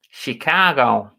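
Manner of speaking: attempted Chicago accent, slow and drawn out; put-on Chicago accent, badly done; poor Chicago accent. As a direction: have a bad stab at a Chicago accent. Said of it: "Is that the right accent for Chicago?".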